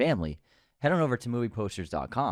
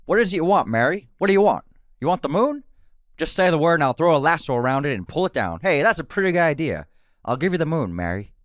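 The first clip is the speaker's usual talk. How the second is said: Jimmy Stewart voice, a touch louder; Jimmy Stewart impression; 3 semitones higher, 5 dB louder than usual. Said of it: "I can do an impression if you like".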